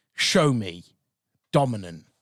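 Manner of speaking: commanding, assertive tone. Demonstrating to the other host the difference between dominant and polite asking: dominant command. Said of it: "I'm going to demonstrate to you now the difference".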